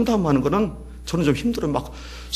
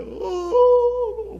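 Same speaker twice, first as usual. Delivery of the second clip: sob. Retold or imitated. Preacher recounts professor's sobbing.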